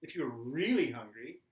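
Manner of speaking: rising exasperated rant at the family. Retold or imitated. Tired stepdad venting at the stepson on the phone, rising indignation. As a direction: build from sarcasm to a pleading complaint.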